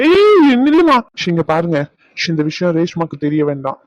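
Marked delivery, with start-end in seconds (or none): 0.1-1.0 loud, high call to halt someone; urgent shout. Acted. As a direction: shout after her to stop. Stops nurse leaving to tell. (அவசரமா கத்தி நிறுத்துதல்)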